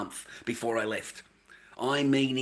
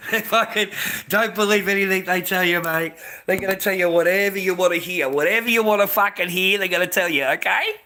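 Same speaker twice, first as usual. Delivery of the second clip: loud, higher, insistent warning; heated warning; 6 semitones higher, 6 dB louder than usual. Real, not acted. Ranting at male viewers not to trust their promises, louder. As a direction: drive it home to the viewers. Warning men about foreign wives.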